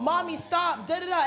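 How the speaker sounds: mock childish plea, no real sobs; crying kids. Crying children begging their mother to stop, pleading. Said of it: "Her kids are crying".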